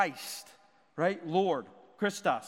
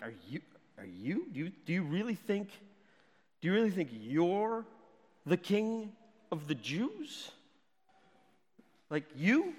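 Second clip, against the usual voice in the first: spiteful. Shown as a demonstration. Pilate mocking Jesus to his face, spiteful. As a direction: sneer at him as you ask. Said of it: "in a really spiteful way".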